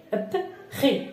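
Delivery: "ب، خي" with the p separated from the following syllable; split into sounds. Shown as a demonstration. Teacher showing how p joins r, sounds split apart. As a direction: sound out "ب" alone, then "خي".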